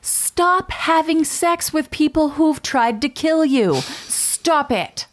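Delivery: high, emphatic mock outrage; exasperated scolding. Host reacts to the victim's choice, exasperated high-pitched scolding. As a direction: scold in comic disbelief, pitch way up.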